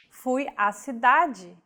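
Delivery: Fui à cidade, the two a sounds merged into one, cidade said see-DAH-jee; Portuguese example sentence; crasis sentence. Shown as a demonstration. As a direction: glide the a's together into one.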